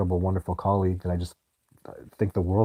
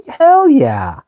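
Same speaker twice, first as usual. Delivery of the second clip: high, loud triumphant yell; proudly cheering his own matchmaking; excited shout; 11 dB louder than usual. Real, not acted. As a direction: shout it like a victory.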